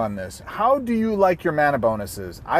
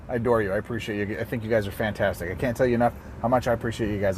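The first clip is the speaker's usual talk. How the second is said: mock pandering; 4 semitones lower, 4 dB quieter, faster than usual. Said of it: "I'm gonna stop pandering".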